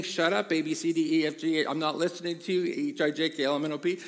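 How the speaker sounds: lightly acted defiant kid drowning out a parent; mock yelling child. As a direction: chant over them like a stubborn child, half-yelled. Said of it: "if they are yelling and screaming".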